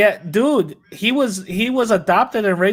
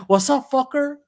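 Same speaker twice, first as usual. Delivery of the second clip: imitating a Chicano accent, high and laughing; 6 semitones higher than usual. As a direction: do a laughing Chicano street greeting. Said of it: "literally talking like a Chicano".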